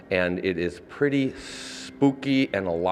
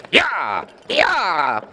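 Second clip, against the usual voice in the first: high, loud cry urging on horses; carriage driver shout; 10 semitones higher, 7 dB louder than usual. Shown as a demonstration. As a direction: yell as if driving a carriage. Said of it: "So it'll have something like this".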